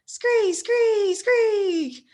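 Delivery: high, squeaky rat screeches; rat squeaks. Acted. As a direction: screech it like a swarm of rats. Reader voices rats squeaking.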